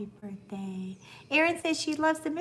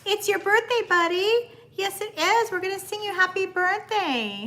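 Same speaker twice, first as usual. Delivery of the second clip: pet talk; 7 semitones higher than usual. Real, not acted. Owner gushing to her dog on his birthday, high baby talk. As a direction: coo at the birthday pup.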